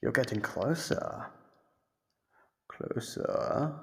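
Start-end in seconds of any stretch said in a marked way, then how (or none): 2.7-3.7 breathy whispered rising lure; whispered hint. Acted. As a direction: coax them in with a whisper. Guiding seeker toward her voice.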